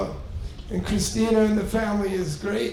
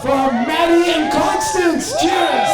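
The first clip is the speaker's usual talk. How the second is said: loud, high rousing "Cheers!"; toast shout; 7 semitones higher, 6 dB louder, slower than usual. Real, not acted. Father of the groom leading the last toast: loud, high cheer. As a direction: lift the room into one last toast.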